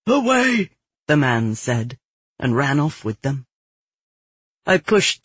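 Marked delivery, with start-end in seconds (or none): 0.1-0.7 high, raised cry; urgent call. A narrator's reading. Fleeing man answers where the crowd goes, urgent cry. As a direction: call out as you bolt away.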